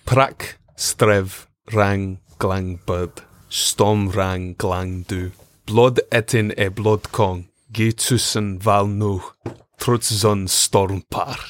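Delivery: slow, deliberate giant gibberish; made-up giant language. Shown as a demonstration. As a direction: intone the invented Jotun words slowly. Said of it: "And what does Jotun sound like?".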